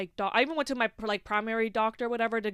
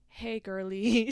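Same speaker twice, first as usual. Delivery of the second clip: lightly put-on girly drawl, stretched out slow; jokily imitating an overfamiliar caller; mock chummy greeting; much slower than usual. Gynecologist calling her patient, mock chummy drawl.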